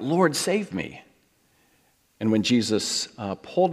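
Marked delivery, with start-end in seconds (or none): 0.0-1.0 higher, slow sinking plea; a hint of a drowning man calling out; mild cry for help. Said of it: "cried out".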